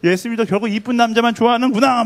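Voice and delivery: high-pitched, indignant acted outburst; angry outburst. Martha resenting Jesus for favouritism, acted angry outburst. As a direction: voice a jealous, rising grievance. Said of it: "막 이러면서 화가 막 나서".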